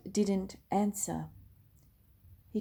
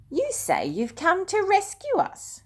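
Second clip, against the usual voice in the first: higher, louder mocking shout; jeering shout; 12 semitones higher, 5 dB louder than usual. A narrator's reading. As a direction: shout it up at him to taunt him. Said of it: "people shouted".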